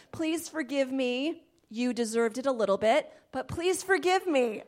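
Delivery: mock apology with a dig; sweet then snide, blaming them; sarcastic apology. Shown as a demonstration. Wife to husband, mock sarcastic apology. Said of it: "that was supposed to be funny".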